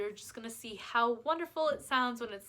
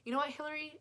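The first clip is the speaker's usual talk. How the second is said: a quiet, cutting critic across the table, mostly softer; mocking inner critic; 5 dB quieter than usual. Shown as a demonstration. Someone across the table tearing you down, quiet and cutting. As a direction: hiss the put-downs at yourself. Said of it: "they were sitting across the table from you and they said".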